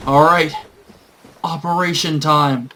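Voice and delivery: hyped team rally; rallying call. Retold or imitated. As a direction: rouse the team for action. Rallying the party.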